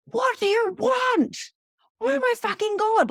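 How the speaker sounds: high, loud, drawn-out yell of frustration; screaming at the spirit. Retold or imitated. Fed-up medium yelling at the spirit, a loud, high exasperated scream. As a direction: shout up at the ceiling, fed up and pleading. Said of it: "screaming at the spirit".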